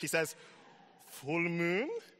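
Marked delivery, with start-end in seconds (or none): 1.1-1.9 light put-on French accent. Retelling what a teacher said to the class over Jaffa cakes, French accent impression. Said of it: "She's got a bit of a French accent".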